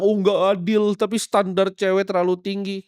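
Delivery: high-pitched imitation of a grievance; mock complaining. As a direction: protest like someone feeling hard done by, mockingly. Mimics men complaining it is unfair. (menirukan keluhan dengan nada tinggi)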